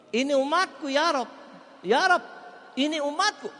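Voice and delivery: impassioned pleading cry; building plea. Acted. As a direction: cry out for your people, building. Preacher builds pleading to high cry.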